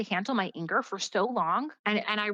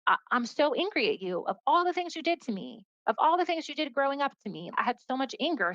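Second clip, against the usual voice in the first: pitched-up mock angry rant; teenage rebellion outburst; 6 semitones higher than usual. Ranting at God like a rebellious teenager, pitched-up mock anger. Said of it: "this teenage rebellion".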